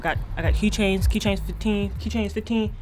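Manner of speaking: fast-talking corner merch seller; street hustler. Acted. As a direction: hawk it like a street vendor. Hawks merch in a skit.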